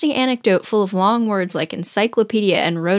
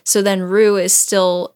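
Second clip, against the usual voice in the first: ordinary talk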